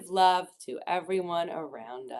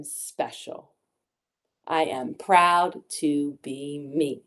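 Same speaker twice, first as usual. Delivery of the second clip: unhurried meditation guide with long pauses; gentle guided visualisation for children. Acted. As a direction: guide small children into calm, phrase by phrase.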